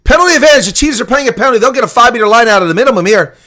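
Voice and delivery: play-by-play close to the try line; excited call. Real, not acted. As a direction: keep the pressure in the voice. Penalty advantage near the line.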